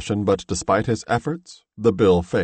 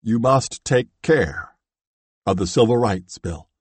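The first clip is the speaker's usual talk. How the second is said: a dying man's hushed, earnest plea; earnest entreaty. A narrator's reading. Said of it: "hoarsely and in a tone of earnest entreaty".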